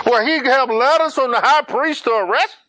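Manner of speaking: high, loud worried objection; a frightened man arguing with God; anxious objection. Acted. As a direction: push back nervously. Ananias objects again.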